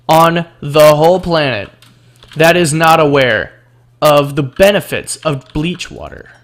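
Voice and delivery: loud, emphatic, phrase by phrase; mock-earnest proclamation. Gamer mock-preaching the benefits of bleach water, emphatic proclamation. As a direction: declare it as a self-evident truth, loudly.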